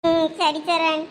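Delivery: subdued, lightly tearful reply; a touch of tearfulness. Acted. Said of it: "எதுக்கு இப்ப நீ அழுதுகிட்டு இருக்க".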